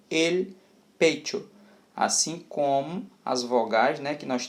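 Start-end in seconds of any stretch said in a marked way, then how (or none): 0.1-1.5 "el pecho" word by word, CH as "tch"; Spanish CH demo. Shown as a demonstration. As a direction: model "pecho" clearly with a crisp tch sound. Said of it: "Então fica assim". ("el pecho" separado, com CH soando "tch")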